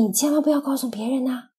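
soft secret aside. Acted. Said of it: "悄悄地告诉".

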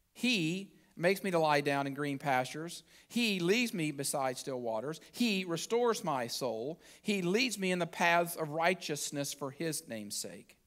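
measured reading, a little under preaching pitch; unhurried recitation of a psalm; scripture reading. Acted. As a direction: read each line of the psalm deliberately. Reads the psalm aloud.

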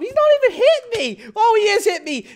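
high, fast startled voice; surprised. Real, not acted. Gamer startled as opponent hits him, high and fast. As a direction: blurt it out in surprise.

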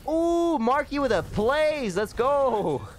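high, loud hype shout; excited cheer. Real, not acted. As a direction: cheer the teammate's play. Hype over teammate's play.

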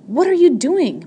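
high, loud shocked screech. A narrator's reading. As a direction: screech it out in outrage. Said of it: "Miss Margaret screeched".

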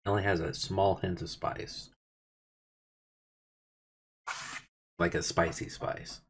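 talking between spoonfuls; chewing while speaking; mouth full of chili. Real, not acted. Seen 0: Holds chili bowl, spoons bite in at 2.5s, keeps chewing.

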